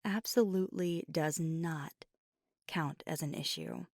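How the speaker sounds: emphatic, defensive irritation; heated but controlled argument; exasperated rant. Acted. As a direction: insist on it, punching key words. Defensive rant about a rival.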